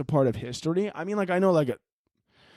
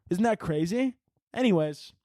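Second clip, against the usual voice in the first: breezy, higher-pitched imitation; lightly voiced lady; 4 semitones higher than usual. Lady sharing her cat TikTok, lightly mimicked breeziness. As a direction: toss it off casually, imitating a woman. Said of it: "the lady in the video was like".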